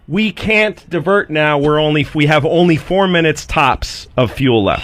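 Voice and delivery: measured radio reply, spaced out; retold pilot. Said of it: "And the guy says".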